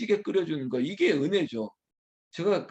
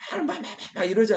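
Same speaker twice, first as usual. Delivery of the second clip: quick, mock angry jabber; mimicked angry ranting; 6 semitones higher, faster than usual. Preacher imitating an angry person, mock ranting. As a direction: rattle it off like someone ranting. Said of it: "막 화내는 사람".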